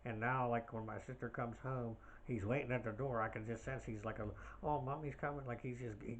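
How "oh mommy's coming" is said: lightly acted giddy, higher pitch; a touch of giddy anticipation. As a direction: voice a giddy puppy's thought, pitched up. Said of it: "he's giddy".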